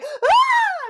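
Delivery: high startled yelp; shocked scream. Retold or imitated. Retelling finding teenagers in the alley, a high startled shriek. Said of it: "I'm like".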